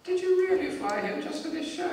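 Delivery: high-pitched royal questioning; the Queen. Acted. Monarch turning back to question the comedian, high regal voice. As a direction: ask it in a high, put-on regal voice. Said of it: "she looked back and she said".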